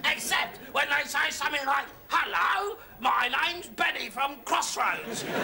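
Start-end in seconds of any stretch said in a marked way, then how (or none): 2.1-5.2 Irish accent impression. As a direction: mimic a soap character in an Irish accent. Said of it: "an Irish accent".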